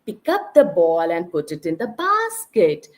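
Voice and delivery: calm demo of a simple command; modeling an instruction. Shown as a demonstration. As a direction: show the child what to do. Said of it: "So try to model".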